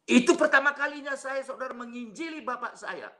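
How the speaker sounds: high, ringing preacher's declaration; emphatic proclamation. Real, not acted. Preacher proclaims a first evangelizing.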